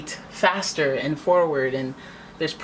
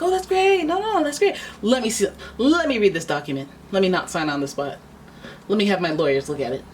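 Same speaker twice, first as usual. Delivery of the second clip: mock cheerful; 4 semitones higher than usual. Querent humoring a smooth talker with mock delight. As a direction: gush to stall the seller. Feigning delight while staying cautious.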